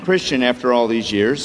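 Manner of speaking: usual speaking voice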